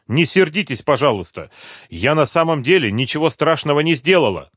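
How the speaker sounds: a hint of a guilty employee; apologetic plea. A narrator's reading. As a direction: beg the boss not to be angry. Rimma apologizes to boss.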